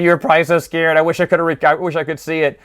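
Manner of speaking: gloating father, lightly voiced; imitated laughing. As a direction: tease the son with a touch of mock laughter. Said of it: "his father, laughing, going".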